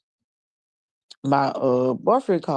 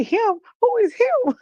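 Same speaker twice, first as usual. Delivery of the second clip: high, animated mock disbelief; retold suspicious questioning; 4 dB louder than usual. Boyfriend hearing about another man, retold suspicious questioning. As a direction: demand an explanation, playfully imitated.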